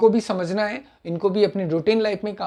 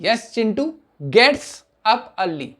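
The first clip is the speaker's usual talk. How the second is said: gets said slowly with a firm falling stress; 2 semitones higher, much slower than usual. Shown as a demonstration. Teacher stressing gets for the class, slowly. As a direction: lean on gets, slow and clear. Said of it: "get के अंदर एस ई एस आ गया".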